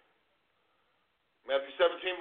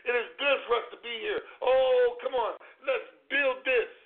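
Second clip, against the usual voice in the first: fast, eager and higher, bursting with joy; excited; 4 semitones higher than usual. Acted. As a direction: gush with excitement over being here. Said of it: "That's how excited I am".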